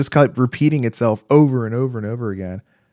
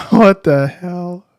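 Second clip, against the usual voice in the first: laughing disbelief; 7 semitones higher, 8 dB louder, much slower than usual. Real, not acted. Stream glitch keeps repeating.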